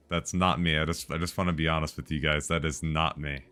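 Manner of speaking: normal talking voice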